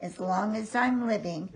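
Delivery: gentle storybook reading; reading to children. A narrator's reading. Reading to grandchild.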